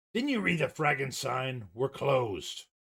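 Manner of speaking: growled delivery on every word. Voicing Charlie as he meets the players at a closed place, Charlie's growl. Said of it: "he growls".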